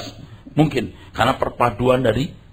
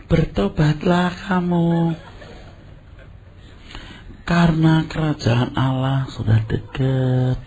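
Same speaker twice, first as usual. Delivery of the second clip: gentle motherly version; 2 semitones higher, slower than usual. Retold or imitated. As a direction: coax them slowly like a kind auntie. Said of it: "nanti ibu-ibu, ini wanita lagi".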